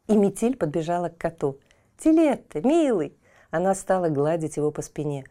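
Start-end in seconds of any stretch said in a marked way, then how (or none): 2.0-3.2 put-on high calling girl. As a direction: call the cat sweetly. Girl calls to cat.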